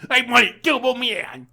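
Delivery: put-on high, loud whining child; whiny kid. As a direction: demand it like a spoilt kid. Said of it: "kid's upset".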